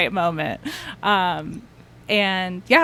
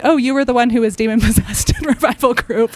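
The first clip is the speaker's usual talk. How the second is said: mock sympathy; 4 semitones higher, 6 dB louder than usual. Mocking what people would say.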